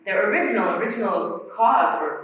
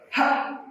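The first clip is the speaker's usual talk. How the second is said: glottal ha. Shown as a demonstration. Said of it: "Try that".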